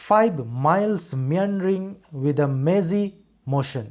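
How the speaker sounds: slow read, stressing MILES, MEANDERING, MAZY and MOTION; stressed syllables. Shown as a demonstration. Teacher reads the example sentence to show where stress falls, stressed syllables. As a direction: lean slowly on each M word in "miles meandering with a mazy motion". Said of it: "इसी sentence को मैं पढ़ता हूँ".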